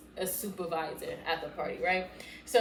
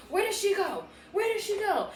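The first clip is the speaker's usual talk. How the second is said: retold demand; 11 semitones higher than usual. Retold demand while hunting the girl.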